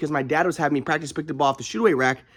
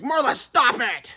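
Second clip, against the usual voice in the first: calm dad; 8 semitones higher, slower than usual. Retold or imitated. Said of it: "And my dad's like".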